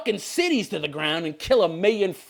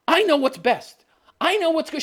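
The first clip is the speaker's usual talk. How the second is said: mock Daenerys; 8 semitones higher than usual. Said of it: "She's like".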